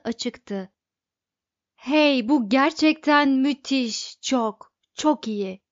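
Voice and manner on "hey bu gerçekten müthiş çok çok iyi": put-on higher and louder, thrilled like a kid; childlike excitement. A narrator's reading. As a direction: gush over the find. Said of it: "neredeyse çocuk gibi heyecanlandığı". (çocuk gibi heyecanlı, coşkulu)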